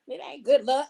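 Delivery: said through laughter; amused retelling; laughing. Real, not acted. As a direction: giggle through the words.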